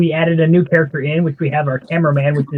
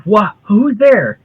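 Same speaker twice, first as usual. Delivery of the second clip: startled; 5 semitones higher, 5 dB louder, much slower than usual. Acted. Character startled by voice.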